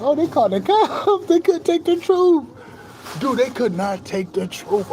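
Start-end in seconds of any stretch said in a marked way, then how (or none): 0.0-2.5 pitched higher, laughing through it; laughing high quote. Retold or imitated. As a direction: crack up while quoting yourself. Quoting himself fleeing, laughing.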